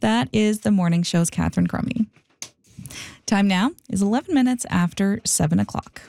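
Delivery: measured news intro with lifted phrase openings; radio host read. Real, not acted. Morning host introducing a Pride Month interview, radio read. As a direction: introduce the next story to listeners.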